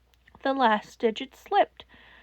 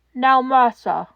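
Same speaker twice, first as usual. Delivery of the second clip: louder raspy urgency; rasped; 8 dB louder, slower than usual. Acted. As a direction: rasp it out urgently. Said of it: "he rasped".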